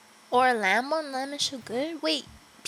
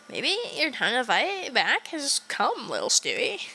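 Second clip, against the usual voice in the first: sly tempter. Acted. A hint of a sinister figure luring Stewie. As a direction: coax him like a sinister voice.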